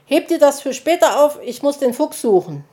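high, loud, rushed exit line; hasty goodbye. A narrator's reading. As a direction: get away fast after a scare. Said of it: "erschrak und verabschiedete sich ganz schnell".

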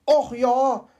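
pleased sigh of delight; mild delighted exclaim. Acted. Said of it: "freute er sich".

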